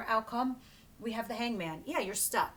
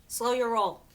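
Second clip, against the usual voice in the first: firm emphatic repeat; 7 dB louder than usual. Shown as a demonstration.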